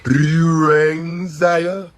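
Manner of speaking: lightly voiced obedient servant, drawn-out words; mock servile servant. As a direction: play a fawning servant in mockery. Mocks a sellout as a servant.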